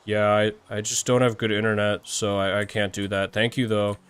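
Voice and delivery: low, soft sad-person impression. Streamer imagining a friend admitting bad internet, mock sad. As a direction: put on a mildly sad, subdued voice. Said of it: "my impression of a sad person".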